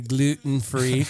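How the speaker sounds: drawn-out sarcastic gluten-free. Acted. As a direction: say it slow and mocking. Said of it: "I say that sarcastically".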